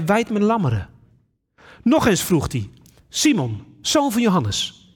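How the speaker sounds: measured, solemn Bible reading; a calm lectern reading voice; scripture reading. Acted. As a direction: read the gospel aloud to the congregation. Reads the Bible passage aloud.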